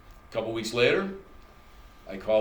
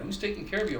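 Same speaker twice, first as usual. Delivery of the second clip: lightly voiced higher nurse question; the nurse asks yet again, much higher; repeating nurse; 8 semitones higher, 3 dB quieter, faster than usual. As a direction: echo her nagging question, much higher. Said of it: "She kept saying that".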